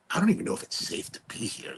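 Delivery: hushed, frightened aside to himself; scared whisper. Retold or imitated. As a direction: whisper it like you don't feel safe. Scared in drug-den hotel.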